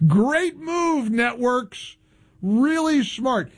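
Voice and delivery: dry, mocking praise; sarcastic praise. Host mocks the networks with sarcastic praise. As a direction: praise them while meaning the opposite. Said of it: "I was being sarcastic".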